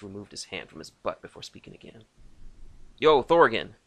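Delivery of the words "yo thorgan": loud, higher call. A narrator's reading. Lucas calling Thorgan on earpiece, loud. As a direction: shout across the comms.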